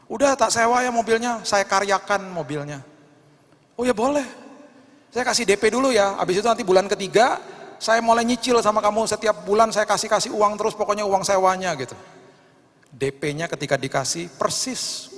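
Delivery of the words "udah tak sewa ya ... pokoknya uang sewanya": voicing a dialogue. Friend and woman voiced in retelling.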